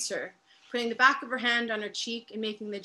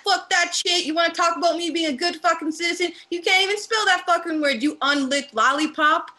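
loud, high, fast furious rant at the facilitator; angry rant; 7 semitones higher, 6 dB louder than usual. Acted. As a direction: spit it out, fed up and swearing. Inmate rants at facilitator.

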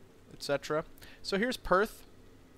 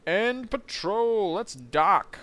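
mock command; 7 semitones higher, 5 dB louder, much slower than usual. Real, not acted. Ordering the crew to dock.

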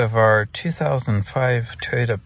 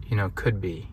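hushed, knowing whisper; whispered aside; 3 semitones lower, 5 dB quieter than usual. Real, not acted. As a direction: drop to a sly whisper. Snide aside about patrons.

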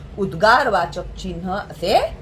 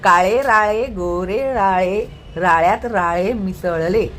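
slow, careful tongue-twister read; said slowly; 2 semitones lower, slower than usual. Shown as a demonstration. Teacher showing a child the tongue twister slowly. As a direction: spell each word out slowly for the child. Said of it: "आधी सावकाश म्हण".

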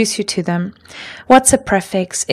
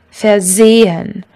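versehen, drawn out with the stress on SE; stress on second syllable; slower than usual. Shown as a demonstration. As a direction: say versehen slowly, ver unstressed and se stressed. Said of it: "all work in the same way".

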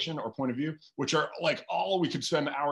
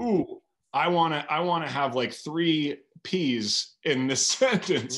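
mock eager self; 4 semitones higher, 5 dB louder, slower than usual. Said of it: "I'm not like".

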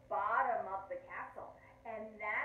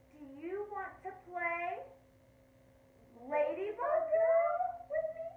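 high, rising, building to loud; eager invitation; 8 semitones higher, 9 dB louder than usual. A narrator's reading. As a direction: draw it out, swelling into a big reveal. Lulu invites Sam after deep breath.

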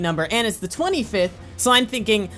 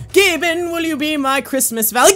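higher, playful call to a sweetheart; mock courting; 5 semitones higher, 4 dB louder than usual. Gamer asking Gaben out, mock courting. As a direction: call out a silly romantic proposal. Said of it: "We're asking him out right now".

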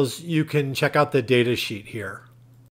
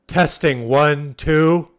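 louder mic check, spoken up; loud test; 4 dB louder, much slower than usual. Shown as a demonstration. Loud mic check into the walkie-talkie to click the speaker on. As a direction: call it out firmly to trip the signal. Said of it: "when you talk loudly".

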